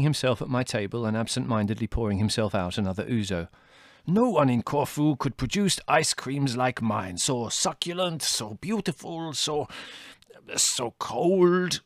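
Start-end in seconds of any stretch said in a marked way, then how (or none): 4.1-11.8 high, slow, savoring praise; rapturous boasting. A narrator's reading. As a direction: linger over every word. Costi praises his ice cream.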